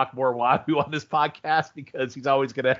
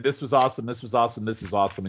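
mocking imitation; 4 semitones lower, faster than usual. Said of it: "I really love how you said".

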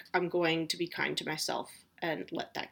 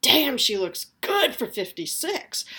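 impressed onlooker; 5 semitones higher, 5 dB louder, slower than usual. Retold or imitated. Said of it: "people are like".

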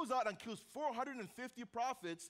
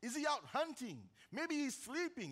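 higher-pitched mock questioning, imitating a taunt; 4 semitones higher than usual. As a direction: needle them as the retold prophet. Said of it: "begins to taunt them".

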